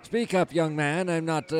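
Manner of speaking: a hint of a creaky elderly warden; frail old man. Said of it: "I'm not as young as I used to be".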